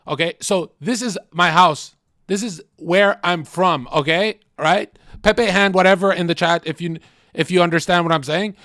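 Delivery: a hint of a hyped streamer ranting, fast; lightly voiced streamer rant; xQc voice. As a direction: ramble on like an excited streamer. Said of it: "let me do an X Q C's voice".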